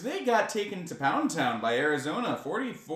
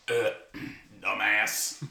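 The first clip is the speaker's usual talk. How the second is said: low, slow hick grunt; dumb redneck voice; 6 semitones lower, slower than usual. Pretend. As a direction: drop low and drawl it dumbly. Voicing Mike Gundy, redneck.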